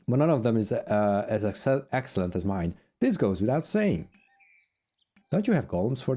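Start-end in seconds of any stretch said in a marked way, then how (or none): 0.1-4.1 raised voice of a haughty crew boss. Acted. Voicing sister NPC.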